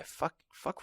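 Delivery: breathy whispered curse; hushed whispered fuck fuck; whispered swearing. Pretend. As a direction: whisper it in dismay. Imagined crowd reaction.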